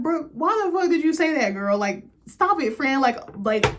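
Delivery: high, loud urgent pleading; imitating a friend's high, loud panic; frantic plea. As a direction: hurry to shut her friend up. Princess urges friend to stop.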